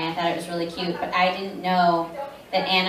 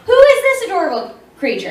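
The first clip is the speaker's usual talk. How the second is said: gushing high squeal; 11 dB louder than usual. Retold or imitated. At the vendor's hall.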